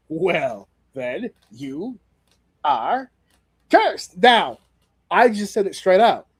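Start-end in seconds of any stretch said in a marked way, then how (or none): 0.1-4.2 dramatic curse. Retold or imitated. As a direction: drag it out, then spring the curse. Danhausen casting curse, retold.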